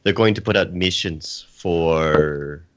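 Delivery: slow, put-on Scottish accent; mock Scottish accent. Panelist answering about pirates, in a mock Scottish accent. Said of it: "I'm gonna talk in a Scottish accent".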